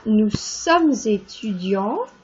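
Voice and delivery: nous sommes étudiants, slow and carefully articulated; French model sentence. Shown as a demonstration. Teacher demonstrating the French sentence slowly. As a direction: sound out each word for learners. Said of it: "So I sing nous".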